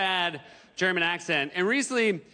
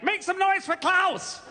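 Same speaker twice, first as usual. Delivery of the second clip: high, drawn-out stage introduction; club announcer; 10 semitones higher, slower than usual. Acted. Emcee introduces German comedian Klaus, hyped announcer voice. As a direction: bring on the act with slow, pitched-up hype. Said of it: "someone on stage is like".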